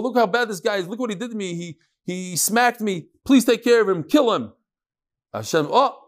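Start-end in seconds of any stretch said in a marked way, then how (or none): 0.0-4.5 lightly voiced pleading complaint; complaining to God. Victim to God, a mildly acted plea for punishment. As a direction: whine to God for revenge. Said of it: "he tells HaKadosh Baruch Hu".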